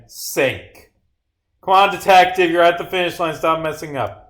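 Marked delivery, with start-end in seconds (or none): 1.6-4.2 high, loud urging that eases off; impatient scolding. Acted. Character chiding detective near the finish line, impatient.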